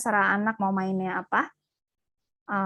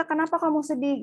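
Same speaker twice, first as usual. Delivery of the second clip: questioning mom; 7 semitones higher than usual. Retold or imitated. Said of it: "Kadang tuh kita".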